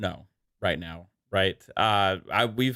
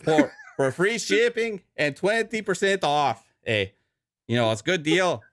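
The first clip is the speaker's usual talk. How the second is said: lightly held mock Canadian ad voice; mock Canadian ad read; Canadian accent; 2 semitones higher than usual. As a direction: keep the joking Canadian read going, eh. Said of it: "Canadian leprechaun".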